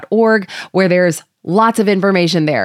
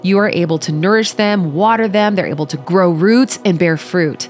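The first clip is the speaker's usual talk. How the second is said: prayer. Acted. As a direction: pray gently and humbly to God. Leads the opening prayer.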